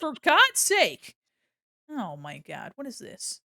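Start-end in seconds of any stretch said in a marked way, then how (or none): 0.0-1.1 loud, high, drawn-out complaint; exasperated outburst. Real, not acted. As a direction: burst out in comic frustration. Frustrated hunt for a picture.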